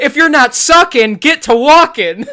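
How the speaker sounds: loud, high, laughing; laughing mock demand. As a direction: blurt it out laughing and mocking. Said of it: "He politely said".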